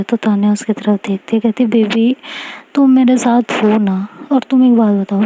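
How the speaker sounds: plain reading voice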